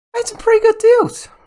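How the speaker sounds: voice shooting very high, loud. A speaker filming a YouTube video that most people don't know about, voice going very high. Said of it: "my voice went very high there".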